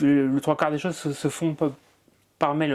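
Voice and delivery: repeats and breaks on the first sounds; real stutter. Real, not acted. Guest stuttering while explaining his work to the interviewer. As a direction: catch on each start, then push the word through. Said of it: "t'as eu un petit trouble de la parole".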